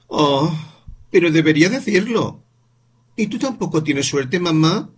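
niño muy agudo y más fuerte; niño indignado. Acted. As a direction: reclamo infantil. Voz del niño Paul. (niño reclamando a su madre, agudo y fuerte)

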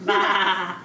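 quavering, broken-up baa; sheep bleat. Acted. Parent showing what the sheep says, quavering bleat. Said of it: "You like the sheep the best?".

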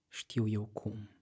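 slow, sly and playful; slow childlike slyness; sly like a child. Acted. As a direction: drag it out like a teasing child. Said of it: "zise ea vicleană ca un copil".

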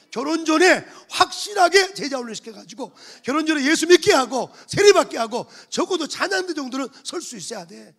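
loud, driving exhortation; fiery preaching. Acted. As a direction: push the church hard, full voice. Urging members before marriage.

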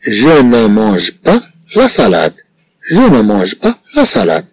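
negative sentence read slowly, word by word; slow model reading. Shown as a demonstration. Teacher models the negative sentence slowly for pupils. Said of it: "إذن سنقول ماذا؟".

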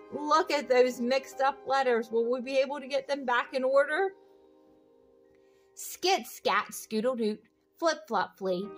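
ordinary delivery

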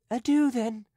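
a fuller first goodbye; emphatic farewell. A narrator's reading. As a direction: call adieu out warmly. Farewell said twice.

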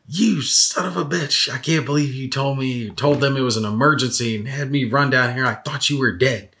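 a hint of a furious brother; mock angry scolding. Brother scolds after running there.

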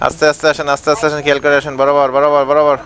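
bus helper calling. Pretend. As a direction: guide the bus in like a helper on the footboard.

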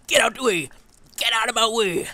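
loud, high shout at an enemy; yelling at a mob. Real, not acted. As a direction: bark it at the creature blocking the path.

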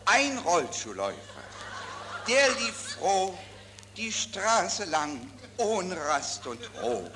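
poem broken by giggles; laughing recital. Real, not acted.

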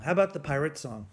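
ordinary delivery

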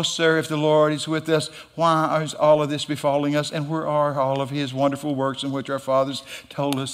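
mildly whiny, droning complaint; understated mock whine; whining. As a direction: imitate a feeble, put-upon complainer. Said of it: "He started whining".

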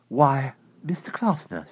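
a startled lady answering; puzzled neighbor lady. Acted. Mrs Saunders answering her odd neighbor, puzzled.

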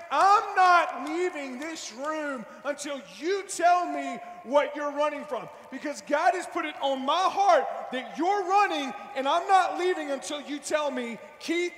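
slow, building to a loud final plea; insistent pressing friend. Retold or imitated. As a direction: refuse to leave until he talks.

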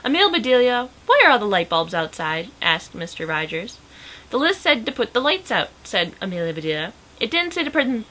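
animated read-aloud with lively character lines; lively storybook reading; story narration. A narrator's reading. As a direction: read a picture book aloud, lifting the dialogue.

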